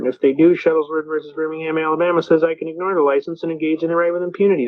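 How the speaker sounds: rattled-off courtroom speech on a level pitch; unbroken litany of legal citations; rehearsed legal recital. Retold or imitated. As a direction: recite case law like a memorized script. Recites his courtroom speech to judge.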